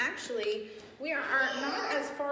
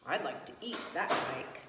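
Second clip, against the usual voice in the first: low, softer greedy goat voice; hungry goat; 8 semitones lower, 5 dB quieter than usual. Acted. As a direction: think it like a goat eyeing lunch. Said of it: "what he thought was".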